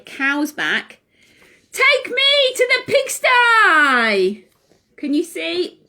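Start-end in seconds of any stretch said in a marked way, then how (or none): 1.7-4.5 bossy order. Acted. Owl orders the cow.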